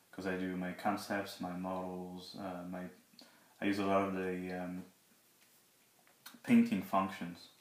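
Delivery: talking around a sore, swollen mouth; sore mouth after wisdom teeth removal. Real, not acted. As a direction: speak carefully, jaw still aching. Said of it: "So sorry if I'm talking weird".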